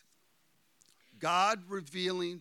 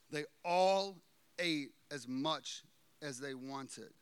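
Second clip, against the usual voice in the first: "They all ate as much as they wanted" said slowly, each word weighted; slow emphatic reread; 3 semitones lower, slower than usual. Shown as a demonstration. Preacher slowly rereading the verse to the congregation. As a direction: savor it slowly. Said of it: "love this verse".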